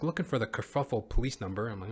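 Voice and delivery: ordinary delivery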